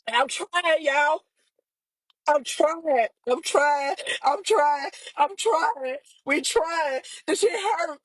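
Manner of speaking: real tearful repetition, struggling through it; crying. Real, not acted. Sister telling viewers she is trying, crying. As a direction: cry through each short phrase. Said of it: "I'm getting on here crying".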